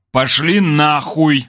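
loud, slowly stretched curse; explosive anger. A narrator's reading. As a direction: blow up and drag out each word. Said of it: "снова взрывался Кир".

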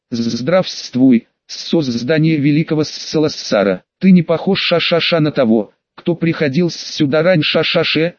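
lightly hissed, stretched s sounds; slow hypnotic serpent hiss. Acted. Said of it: "прошипел Василиск".

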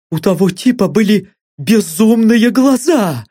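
high scared captive voice; frightened captive. Acted. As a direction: say it plainly in fear. Blond's voiced line.

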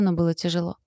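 ordinary delivery

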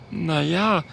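high, subdued small voice; little dragon Oskar, hushed. Acted. Oskar replying to Mathilda at night, hushed.

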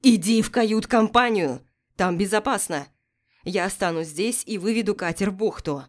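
loud urgent order over storm; shouting over wind. Acted. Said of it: "Ярослав кричал".

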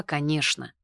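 plain reading voice

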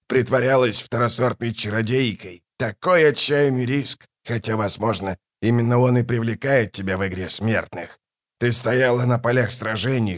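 a hint of a mocking tyrant. Kallor mocks the gods who came to him, lightly mocking king. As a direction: sneer at the gods from the throne, lightly.

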